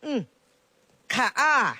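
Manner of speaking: put-on chatty old granny voice, fond and teasing; village grandma. Grandma to her neighbour and baby granddaughter, fondly teasing. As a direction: play a proud grandma showing off her grandchild.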